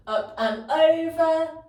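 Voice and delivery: laughing, slow and high. Real, not acted. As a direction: laugh it off while cueing. Laughs after getting confused.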